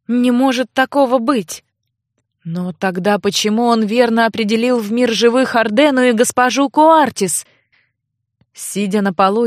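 plain reading voice

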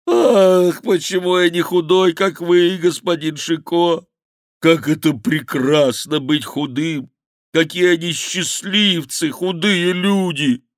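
high, loud, slow lament; wailing monk bewailing his fatness; crying out. Acted. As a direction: curse his own belly in despair.

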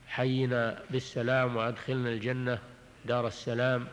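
slow, measured reading of a dua; unhurried, level-toned prayer recitation; recited supplication. Acted. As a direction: recite the prayer phrase by phrase, evenly.

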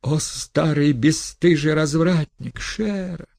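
high, loud wail of outrage; wailing outcry. Acted. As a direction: cry out in shocked fury, high and loud. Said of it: "возопила она вдруг".

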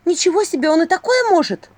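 высоко и громко; ахни от изумления; изумление. A narrator's reading. Изумление Василисы. (изумлённо, высоко и громко)

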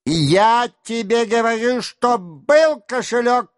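high furious yell, stress on я; angry shout. A narrator's reading. Denisov shaking his orderly, yelling about the purse. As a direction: shake the words out in rage. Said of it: "кричал Денисов".

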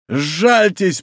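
high-pitched plea for mercy; мольба. A narrator's reading. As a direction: cry out beseechingly. Dying man begs for mercy. (жалобно умоляя)

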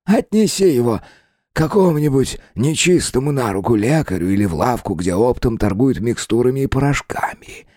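high, sly well spirit; eerie spirit voice. Acted. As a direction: tempt him with a knowing lilt. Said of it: "засмеялся голос из колодца".

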